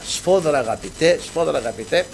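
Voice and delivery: softly, like the Lord speaking in a vision; hushed divine voice. Retold or imitated. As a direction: let the words fall quietly, almost breathed. God speaking to him in vision. (απαλή, σιγανή φωνή του Κυρίου)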